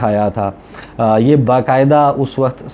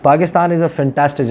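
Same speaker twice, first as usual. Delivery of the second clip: slightly raised, drawn-out compliment; lightly quoted Donald Trump; 4 semitones higher, much slower than usual. Retold or imitated. Journalist quoting Trump's compliment to Nawaz Sharif, lightly emphatic. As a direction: punch up the praise as a quote. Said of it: "Donald Trump जो हैं वो अब बात कर रहे हैं".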